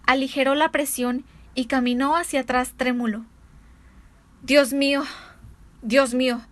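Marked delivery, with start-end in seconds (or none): 4.4-6.4 shocked exclamation. A narrator's reading. Avenger realizing his mistake, horrified outcry. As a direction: blurt it out in horror. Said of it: "exclamó".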